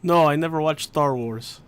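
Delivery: light mock Russian accent; a weak go at a Russian accent. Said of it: "you need to work on your Russian accent".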